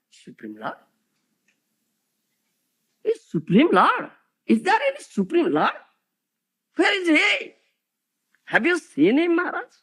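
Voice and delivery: doubting questions, pressing the preacher; mock skeptic. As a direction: challenge him, half-mocking. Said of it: "They ask this question".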